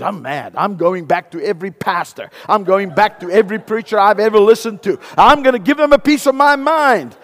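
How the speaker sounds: put-on high, loud, indignant elderly lady; hammed-up outraged churchgoer. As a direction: give the pastors a piece of her mind. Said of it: "She says".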